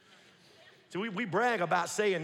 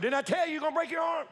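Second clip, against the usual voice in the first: scolding parent; 7 semitones higher, faster than usual. Retold or imitated. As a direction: scold the child who got hurt.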